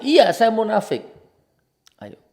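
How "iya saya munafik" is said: loud, high, defiant admission; raised voice, emphatic comeback; heated admission. Real, not acted. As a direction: throw the accusation back, owning it loudly. Heated answer to imagined accuser.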